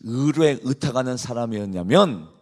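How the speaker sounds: usual speaking voice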